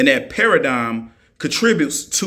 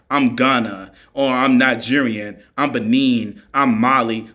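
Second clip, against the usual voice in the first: mocking quote; 4 semitones lower than usual. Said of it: "don't come up here talking about some".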